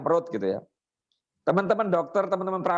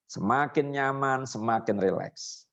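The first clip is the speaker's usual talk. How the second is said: deepening suggestion; 3 semitones lower, slower than usual. Shown as a demonstration. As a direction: let the voice sink as you deepen. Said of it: "Kalau dia sudah mulai stabil".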